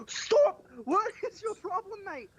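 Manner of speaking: put-on snooty British accent; condescending British. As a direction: talk down in a posh British accent. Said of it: "The condescending voice is British".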